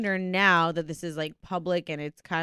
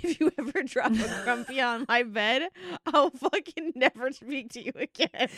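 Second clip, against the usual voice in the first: higher-pitched, play-acted threat; mock threat; 4 semitones higher than usual. Quoting a threat about the bed, mock threat. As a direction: toss off a mock ultimatum.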